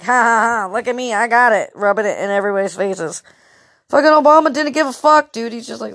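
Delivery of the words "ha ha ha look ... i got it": gloating mock. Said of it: "acting like".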